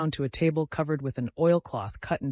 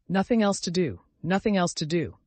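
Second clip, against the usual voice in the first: tearful; 5 semitones higher, 5 dB louder than usual. A narrator's reading. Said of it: "she replied with tears in her eyes".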